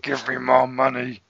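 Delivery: slow, weighty corporate boss; slow greedy executive voice; measured weighty baritone. Acted. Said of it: "That's exactly what he sounds like".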